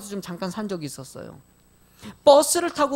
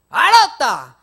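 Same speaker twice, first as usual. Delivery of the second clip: curt loud reply; 3 semitones higher, 10 dB louder, much slower than usual. Retold or imitated. Driver's curt Gyeongsang reply.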